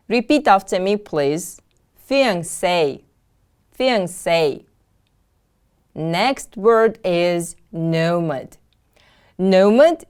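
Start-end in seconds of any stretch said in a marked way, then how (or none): 2.1-4.6 "Fiancé" with a stressed, falling SAY at the end; careful teacher's "Fiancé", weight on the final syllable; stress on last syllable. Shown as a demonstration. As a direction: model "Fiancé" as fi-an-SAY. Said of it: "The stress is on the last syllable".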